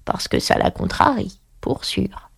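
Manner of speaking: whispered frog aside, fading out; murmured. Acted. Old frog explaining to Alice, whispered. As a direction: hush it like a secret. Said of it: "murmura la grenouille".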